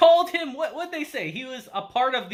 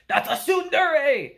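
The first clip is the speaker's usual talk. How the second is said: laughing shout; 6 semitones higher, 5 dB louder, slower than usual. Real, not acted. Reviewer yelling at the screen about the girl, laughing shout. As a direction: laugh it out loud and slow.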